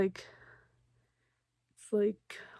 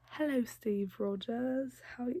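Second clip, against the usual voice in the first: put-on British accent; 4 semitones higher than usual. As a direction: start a light British accent, then drop it. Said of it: "okay, she's not British".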